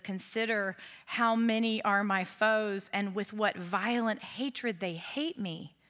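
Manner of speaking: slow, measured reading of a psalm; slow solemn scripture read. Acted. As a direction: let the verse sink in, unhurried.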